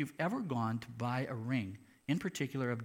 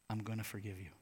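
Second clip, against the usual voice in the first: quiet judge; 5 semitones lower, 8 dB quieter, faster than usual. Retold or imitated. Judge quietly grants forgiveness.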